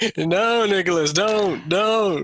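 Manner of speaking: facetious mock dismay, drawn out. Reacting to a listener's plan to study composition: facetious mock disapproval. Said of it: "I'm being facetious".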